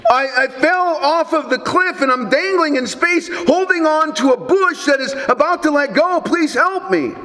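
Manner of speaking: high-pitched, hammed-up desperate plea; pleading. Tourist hanging off the cliff to heaven, mock pleading. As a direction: act out a dangling man begging for rescue. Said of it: "The tourist pleaded".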